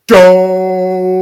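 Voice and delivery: loud, high, long-held yell; Homer Simpson. Retold or imitated. Imitating the yell from the Simpsons movie, long loud yell. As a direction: bellow the word and stretch it out. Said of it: "And he yelled it like this".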